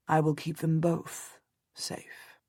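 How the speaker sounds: slow, hushed whisper; whispered promise. A narrator's reading. Husband promising Jasper to keep them safe, whispered. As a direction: whisper it as a sincere vow. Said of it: "he says quietly".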